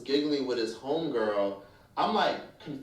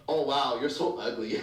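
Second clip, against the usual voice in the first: mock insult capped with a laugh; jokingly laughing. Fake friend jokingly insulting someone, laughing. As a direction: say it as a joke, laughing it off. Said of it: "People who jokingly laugh and say".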